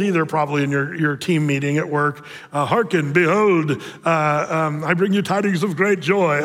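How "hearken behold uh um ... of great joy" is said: mock archaic. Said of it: "you won't talk like that".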